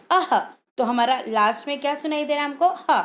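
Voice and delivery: अह ending in a breathy ह; final h sound. Shown as a demonstration. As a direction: let the ह breathe out at the end. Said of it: "ह का sound आता है".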